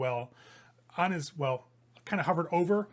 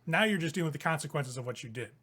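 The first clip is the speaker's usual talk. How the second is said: cold villain retort. Acted. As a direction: turn the blame back coldly. GM voices Vanathra retorting.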